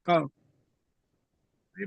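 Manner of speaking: choppy call audio breaking up; bad connection. Real, not acted. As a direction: voice cutting in and out. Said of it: "break हो रही है आपकी आवाज".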